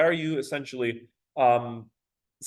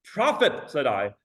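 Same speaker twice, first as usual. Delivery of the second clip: dramatic recital; 4 semitones higher than usual. Shown as a demonstration. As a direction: declaim it like a man pleading with a demon. Teacher reading the poem dramatically.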